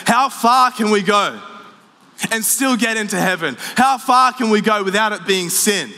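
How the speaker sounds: a hint of a bargaining churchgoer; questioning voice. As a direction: churchgoer testing the limits, lightly voiced. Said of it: "we ask that question, we say".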